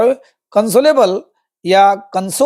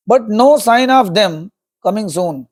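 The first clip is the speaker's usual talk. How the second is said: slow reading; much slower than usual. Shown as a demonstration. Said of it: "teacher reading the story line slowly".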